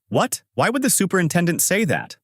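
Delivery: high-pitched, puzzled disbelief; shocked. A narrator's reading. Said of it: "Everyone gets shocked on hearing him".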